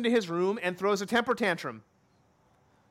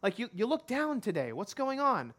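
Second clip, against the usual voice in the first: higher-pitched wife gently questioning; lightly voiced concerned wife; 5 semitones higher than usual. Wife asks sulking husband why he is upset, lightly acted concern. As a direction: lightly act a wife asking what's wrong. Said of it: "she asks him a question".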